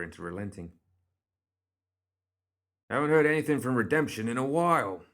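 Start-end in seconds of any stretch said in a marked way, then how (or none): 2.9-5.0 higher and louder, calling over the noise; calling back. A narrator's reading. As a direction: shout it back over thundering horses. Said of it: "the carriage driver called back to them".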